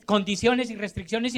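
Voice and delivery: rushed small-print read; quick, offhand fine print; hurried disclaimer. Retold or imitated. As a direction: rattle it off quickly. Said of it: "los dicen a la carrera".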